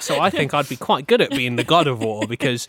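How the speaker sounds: lightly voiced god pitching himself; a hint of an eager candidate; job applicant. God of war interviewing for the job, lightly voiced applicant. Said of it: "just coming into a job interview".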